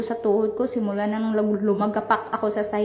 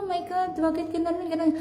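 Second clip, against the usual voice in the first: retold surprise; 5 semitones higher, 3 dB quieter than usual. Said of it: "Sobrang nagulat ako".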